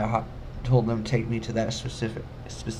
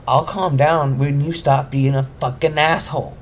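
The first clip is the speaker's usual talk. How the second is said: louder, cutting comeback; angry retort; 3 semitones higher, 4 dB louder than usual. Retold or imitated. Answering the guard's calm down, furious. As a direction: throw it back at him.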